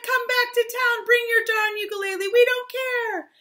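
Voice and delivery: high, loud call; excited welcome shout. Acted. Townspeople to father and boy, excited shout. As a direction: call them home, last words stretched.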